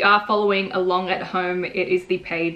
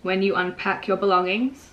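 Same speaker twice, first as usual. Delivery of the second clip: measured poetry reading with pauses between lines; poem reading. Acted. Author reading the poem to viewers, measured recital.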